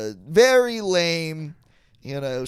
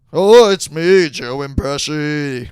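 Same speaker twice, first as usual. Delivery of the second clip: loud opening then a lightly voiced mock Pesci; Joe Pesci impression; 7 dB louder than usual. Doing a bit for a laughing friend, loud hammy Pesci. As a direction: bark the oh, then settle into bad Pesci. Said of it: "you should do this kind of stuff".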